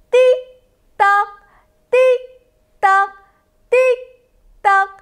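steady clock-tick rhythm. Shown as a demonstration. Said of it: "Kita ulangi sekali lagi".

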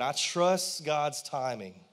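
slow and firmer, leaning on trust; stronger repeat. Shown as a demonstration. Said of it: "Come on, say that".

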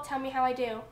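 normal talking voice

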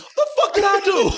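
high-pitched, comic disbelief; bewildered soldier. Retold or imitated. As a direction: voice the hapless soldier, squeaking upward. Voicing the soldier's bewildered look.

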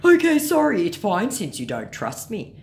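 high, loud mock apology; scammer. Scammer giving up on earning trust, mock huffy apology. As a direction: burst out as a put-out scammer, then ease down.

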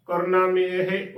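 ਕਰਨਾ, ਮੇਹ as korna-mehe, run together; joined pronunciation. Shown as a demonstration. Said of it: "ਇਸ ਦਾ ਸ਼ੁੱਧ ਉਚਾਰਨ".

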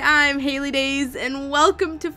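excited game intro, voice leaping up; hyped intro. Real, not acted. Hyped greeting to viewers.

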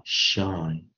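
"shy" ending in a long "eye" sound; Y pronounced as I. Shown as a demonstration. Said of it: "Y就念I了".

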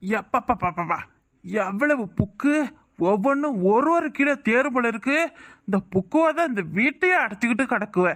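put-on a drunk man grumbling to himself about liquor; drunk father. Drunk father mumbling about money for another quarter.

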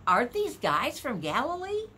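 mildly astonished, lifting at the end; amazed question. Retold or imitated. Preacher voicing the crowd below, amazed. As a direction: imitate a puzzled, amazed crowd. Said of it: "No wonder they were amazed".

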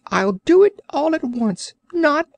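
high, insistent creature demand; demanding Orc. Acted. Orc demanding the biscuit from Cap'n Bill, high insistent voice.

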